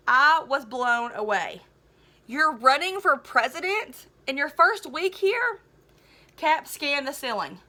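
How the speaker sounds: lively read-aloud to a class; storybook reading voice; story narration. A narrator's reading. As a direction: tell the story to the students. Teacher reads novel aloud.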